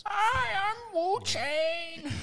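put-on squeaky, very high, slow Chinese accent; a cartoon Chinese caricature, stretched; cartoonish Chinese accent. A friend jokes with a made-up Chinese name, in a cartoonish Chinese accent. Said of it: "improper accents".

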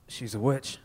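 soft, low, dramatic; ominous hushed verdict. Acted. The mayor declaring the wife a witch, low and hushed. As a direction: drop the verdict in a hush.

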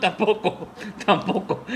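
laughing through tampoco; laughing refusal. Retold or imitated. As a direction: giggle out the refusal.

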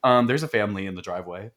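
understated, quick, casual report; too chill. Retold or imitated. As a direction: imitate an oddly unbothered kid. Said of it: "He was too chill about that".

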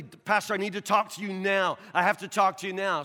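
high, loud urgent plea; desperate caller. Retold or imitated. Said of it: "called the pastor desperately".

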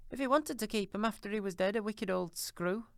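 put-on high, coarse old charwoman, brazen; a bold thieving charwoman, defiant. A narrator's reading. Charwoman scorns dead man.

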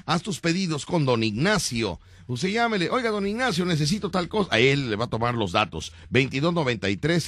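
upbeat commercial announcer read; radio ad read. Acted. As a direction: sell it like a radio spot. Reads a radio ad.

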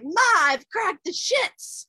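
cheeky put-on Aussie accent; mock Australian accent. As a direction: ham up an Australian whining to his mum. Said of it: "I'm gonna start talking like I'm Australian".

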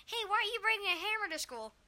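lightly voiced parent. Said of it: "The, the parents are just like".

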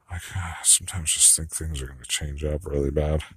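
hushed worried whisper. Real, not acted. Confiding a worry in a whisper. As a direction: whisper it to yourself.

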